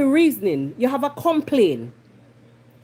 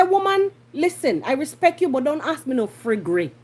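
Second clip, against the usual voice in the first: riled rebuke, starting high and dropping; vexed Jamaican telling-off; 3 semitones higher than usual. Acted. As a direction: put your foot down, annoyed. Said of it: "my bringle".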